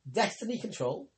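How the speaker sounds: incredulous echo of the phrase; puzzled echo. Acted. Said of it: "He raised his eyebrows".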